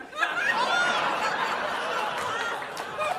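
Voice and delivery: high, soft imitated sobs; mock crying. Agent crying on the phone, mock sobbing. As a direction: mimic someone bursting into sobs. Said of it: "and she starts crying".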